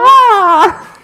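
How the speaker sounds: loud high bird shriek; shrill screeching bird woman. Pretend. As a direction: shriek like a gull. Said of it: "You're going into the red".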